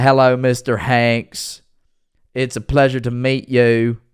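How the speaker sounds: very slow, lightly imitated Southern boy; kid's Southern drawl. Streamer imitating the child actor greeting his co-star, slow drawl. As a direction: stretch each word like the boy Gump. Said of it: "just how that kid speaks".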